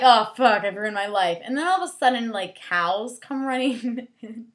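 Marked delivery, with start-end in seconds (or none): 0.0-1.4 dismayed cry. Retold or imitated. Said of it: "So she's all like".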